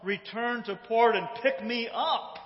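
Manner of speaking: acted-out insistent appeal; insistent plea. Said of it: "listens to her appeal and plea".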